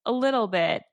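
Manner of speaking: slightly sheepish quoted admission. Retold or imitated. Harry answering Ron about his pet rat, mildly sheepish. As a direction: imitate a sheepish little admission. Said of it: "looks all sheepish and goes".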